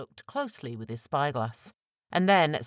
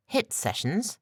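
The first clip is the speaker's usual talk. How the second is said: puzzled question rising high on hit; confused echo; 8 semitones higher, slower than usual. A narrator's reading. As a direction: repeat it back, baffled and rising. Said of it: "Now it was Ramsey's turn to look confused".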